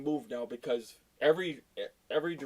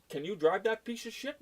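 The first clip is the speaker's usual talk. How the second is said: scornful question; 8 semitones higher than usual. Retold or imitated. Retold scornful question to driver.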